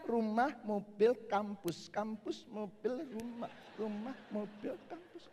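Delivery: slow, sing-song listing; lightly mocking chant; mock aimless routine. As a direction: drone it like a bored routine.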